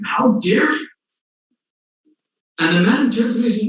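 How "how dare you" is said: high, indignant outburst; angry yell. Retold or imitated. Mufaddal yelling at the atheist who insulted the faith, high and indignant. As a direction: snap it out in outrage, pitched high. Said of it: "starts yelling at him".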